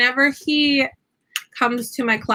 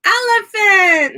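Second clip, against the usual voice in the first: loud, slow trumpeting "Elephant!"; elephant call; 8 semitones higher, 5 dB louder, slower than usual. Shown as a demonstration. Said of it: "I go".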